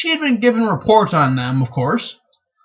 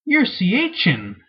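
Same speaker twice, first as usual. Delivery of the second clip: startled; much slower than usual. Acted. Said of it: "Egwin said, startled".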